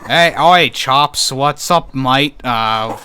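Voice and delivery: put-on terrible British accent slipping into Australian; bad British accent. Co-host demonstrates a badly done accent, terrible British. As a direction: botch a cheery British impersonation. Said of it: "a bad British impersonation".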